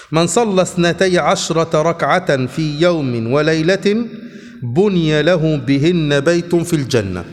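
slow, measured classical Arabic reading; formal hadith reading. Acted. Teacher reading hadith text to his class, slow formal reading. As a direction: read the chapter out slowly, phrase by phrase.

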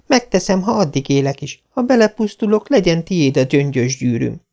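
put-on high, dramatic girl's vow; Anne solemn. A narrator's reading. Anne vowing to walk the roof, high and dramatic. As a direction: swear it with grand solemnity. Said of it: "jelentette ki Anne ünnepélyesen".

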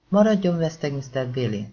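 hangosabban, ellentmondást nem tűrve; állítsd meg egy éles paranccsal; parancsoló rászólás. Acted. Pointer hátulról rászól Nathanre. (Pointer hátulról rászól Nathanre, hangos, parancsoló hangon)

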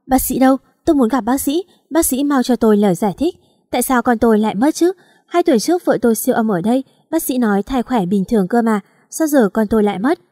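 calling out loudly for the doctor; loud demanding. Acted. Husband loudly demanding the doctor explain, angry. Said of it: "Tiếng Anh hỏi oang oang".

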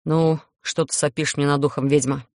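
low, grumbling vampire; grumpy vampire. Acted. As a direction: grumble it at the witch. Grumpy vampire voiced by narrator.

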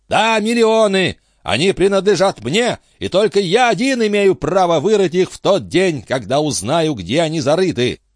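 a high-voiced captain grilling his friend; excitable old sea captain. A narrator's reading. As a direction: press him like a fussy old skipper. Antifer claims the millions.

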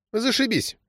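put-on short, high girlish quip; curt girl reply. A narrator's reading. Girl answering Krylov about the future, curt and high. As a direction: toss it off, brief and cheeky. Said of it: "кратко ответила девочка".

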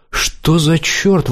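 stage director startled; exclaiming. A narrator's reading. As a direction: blurt it out in surprise. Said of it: "воскликнул он".

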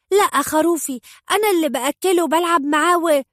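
put-on a boy fighting for his pet; angry child protest. A narrator's reading.

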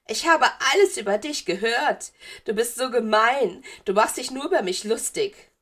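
put-on high, loud, aggrieved ghost girl; gekränktes Geistermädchen. A narrator's reading. Narrator voices ghost girl. (gekränkte, hohe Geistermädchenstimme)

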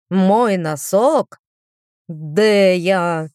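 slow, anguished wail over the sock; having a heart attack. Acted. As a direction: clutch your heart and moan. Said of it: "схватился за сердце Бакстер".

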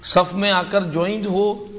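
ordinary delivery

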